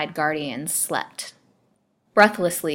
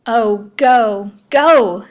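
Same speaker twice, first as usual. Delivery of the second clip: high, loud, desperate cry; anguished, urgent outburst; gasped plea; 5 semitones higher, 11 dB louder, much slower than usual. A narrator's reading. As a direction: beg him to leave, pitch leaping up. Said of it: "she gasped".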